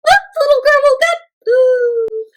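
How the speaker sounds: startled realization; surprised alarm. Real, not acted. Alarmed discovery girl woke.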